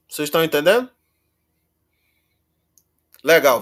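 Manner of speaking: normal talking voice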